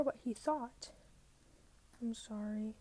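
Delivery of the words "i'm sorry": grudging mutter, soft. A narrator's reading. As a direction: mumble the apology. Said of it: "I muttered".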